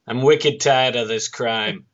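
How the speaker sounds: put-on slow Boston accent Batman; hammed-up wicked Boston drawl. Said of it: "there was a couple of people like".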